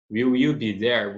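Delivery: slow, clear question read out; slow question model. Shown as a demonstration. Teacher modelling the question slowly for learners. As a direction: ask it slowly so they hear each word.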